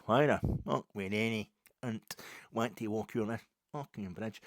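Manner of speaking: badly imitated local Govan accent; terrible Govan accent impression. Boy on the bridge challenging walkers, bad Govan accent. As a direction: lightly put on a rough Govan accent. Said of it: "that's a terrible impersonation of the accent".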